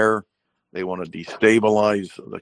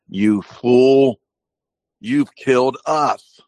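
louder, higher accusing cry; mock furious captain; 6 semitones higher, 6 dB louder, much slower than usual. Furious reproach. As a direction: shipmate turning on the captain. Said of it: "and says".

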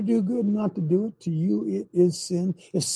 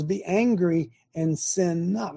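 plain; slower than usual. Shown as a demonstration. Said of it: "The Bible says".

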